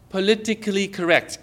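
measured, careful delivery of "politically correct"; deliberately enunciated. Shown as a demonstration. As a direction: sound out "politically correct" for the crowd. Sounding out phrase for congregation.

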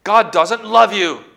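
loud, high, slow accusation; crying out. Acted. Enemy crying lies at the believer, loud taunt. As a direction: call out the taunt, drawn out. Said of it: "he cries".

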